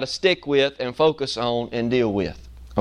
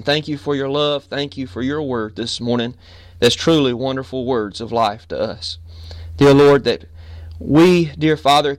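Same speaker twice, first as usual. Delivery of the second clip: earnest spoken prayer, rising on Dear Lord; fervent preacher's prayer; pastor's prayer; 3 semitones lower than usual. Acted. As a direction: pray aloud for the congregation. Leads the congregation in prayer.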